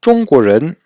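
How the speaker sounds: teacher modelling Zhongguozhen for the class; model Chinese pronunciation. Shown as a demonstration. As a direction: Zhongguozhen enunciated like a language teacher. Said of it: "Donc chinois".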